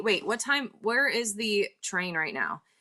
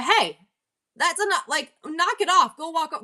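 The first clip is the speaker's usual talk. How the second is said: higher-pitched, firm call, short of screaming; retold raised voice; 7 semitones higher than usual. Telling a man to stop attacking an old woman, raised voice, not screaming. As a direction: re-enact raising your voice without yelling. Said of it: "raised my voice, but I didn't scream at him".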